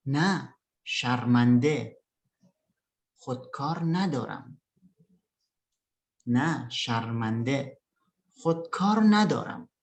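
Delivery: careful, drawn-out "شرمنده"; unhurried textbook answer with pauses between phrases; slow model reading. Shown as a demonstration. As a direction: read the dialogue phrase by phrase for learners. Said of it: "Saya bacakan pelan-pelan".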